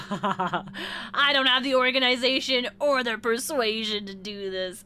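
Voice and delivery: laughing through dismay. Real, not acted. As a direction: laugh while admitting defeat.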